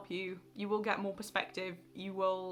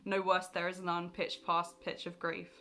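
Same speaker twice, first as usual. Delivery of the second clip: poem reading. Acted. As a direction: read the lines gravely, letting them weigh. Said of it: "I've got some of his poems written out here".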